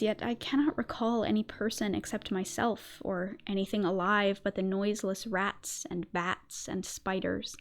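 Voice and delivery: slow, hushed gothic storytelling; story narration. Acted. Reads the story in ASMR narration.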